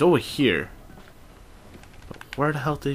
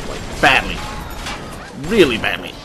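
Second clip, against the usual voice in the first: 1 loud alarm; 7 dB louder than usual. Real, not acted. Angered enemy chasing him.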